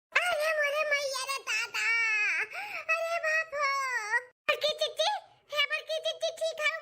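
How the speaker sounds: hammed-up high wail; mock wailing. Mother-in-law laments to the household in a mock wail. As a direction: cry out to the heavens, theatrically.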